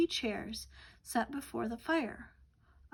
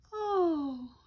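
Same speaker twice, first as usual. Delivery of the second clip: a breathy whispered yawn; sleepy yawned oh; 6 semitones higher, 4 dB louder than usual. Acted. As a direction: let the oh dissolve into a yawn.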